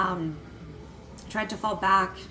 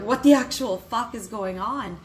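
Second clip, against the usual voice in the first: retold yell; 6 dB louder than usual. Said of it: "yelled out".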